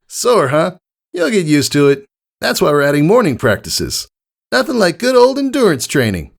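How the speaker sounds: pumped-up coach cheering her on; joyful Rainbow Dash. A narrator's reading. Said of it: "nothing but joy on her face".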